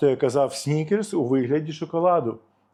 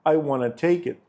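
relaxed American "I wanna take it"; casual American English. Shown as a demonstration. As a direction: run "want to" together as "wanna". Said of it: "Чи на американський лад".

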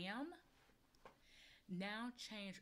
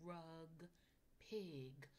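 soft echo; 2 semitones lower, 5 dB quieter, much slower than usual. Shown as a demonstration. Teacher quietly echoing words with the child. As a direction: murmur it along with the child. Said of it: "You say it".

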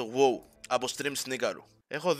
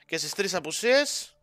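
mock warning; 4 semitones higher, 4 dB louder than usual. Warning about absences, hyped.

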